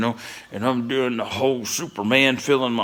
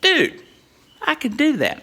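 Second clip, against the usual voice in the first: higher, mock-cocky teen boast; cocky confidence; 12 semitones higher than usual. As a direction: oversell it to the boss. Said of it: "I was like".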